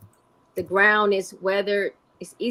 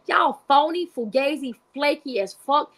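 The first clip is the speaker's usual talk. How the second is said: angry callout; 5 semitones higher than usual. Real, not acted. Calls out the crowd, rising anger.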